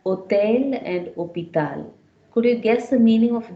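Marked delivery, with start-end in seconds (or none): 0.1-1.9 hôtel 读 o-TEL, hôpital 读 o-pi-TAL, h 不发音; French hôtel hôpital. Shown as a demonstration. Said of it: "I've given an example".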